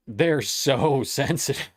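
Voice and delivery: they're so sensitive, broken by a laugh; amused chuckle mid-phrase. Real, not acted. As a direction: laugh through the word sensitive. Laughing at the streamers again.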